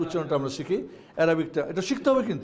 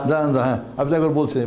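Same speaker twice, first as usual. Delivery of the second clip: louder, cutting in to stop; firm louder interruption; 3 semitones lower, 5 dB louder, faster than usual. Real, not acted. Teacher cutting in loudly to stop the student's recital. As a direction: halt the student firmly.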